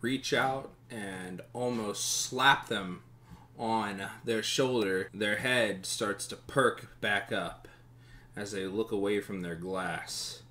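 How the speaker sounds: slow, measured scene setting; unhurried narrator drawing out each image; game master narration. Acted. Game master describes a tavern to players, slow immersive narration.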